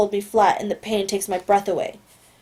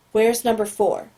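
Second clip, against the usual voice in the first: even, detached agent's query; calm, neutral question. Acted. Agent questioning the captive boy, calm and detached. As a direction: ask it coolly, no pressure. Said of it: "the calm voice is completely gone".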